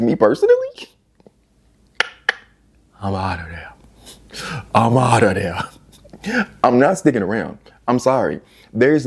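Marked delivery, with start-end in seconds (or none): 3.0-3.7 softer, low-key resolve; quiet aside. Acted. First take of her exit line: quiet and flat. Deciding to leave spouse. 4.7-6.5 slow breathy whisper. Acted. Second take of her exit line: slow secret whisper. Deciding to leave spouse.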